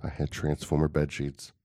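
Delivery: measured, low-key solemn narrator; lightly voiced documentary storyteller with long pauses; Morgan Freeman voice. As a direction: recount it gravely, pausing between phrases. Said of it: "Are you doing, like, Morgan Freeman voice?".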